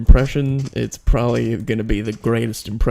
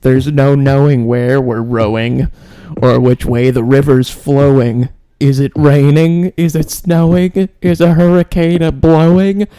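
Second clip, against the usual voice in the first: loud, slow rhyming chant, climbing steadily higher; Gene Wilder; 6 semitones higher, 7 dB louder than usual. Acted. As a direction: build an eerie recital to a high, drawn-out peak. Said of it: "It's G-, Gene Wilder".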